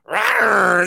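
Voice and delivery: playful mock dinosaur roar; a little growling rawr. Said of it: "Rawr of the week".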